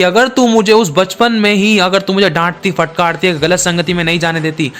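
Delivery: a son accusing his mother from the gallows; scolding blame. Acted. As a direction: pile the blame on her line after line. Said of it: "डांटते हुए, दोष लगाते हुए कहा".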